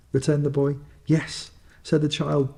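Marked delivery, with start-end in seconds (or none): 1.0-1.5 gleeful. Acted. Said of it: "brimful of glee".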